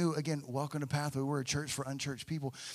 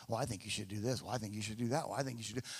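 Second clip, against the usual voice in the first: mock advice-givers; 5 semitones lower, 7 dB quieter, much faster than usual. Mimicking well-meaning Christians' advice.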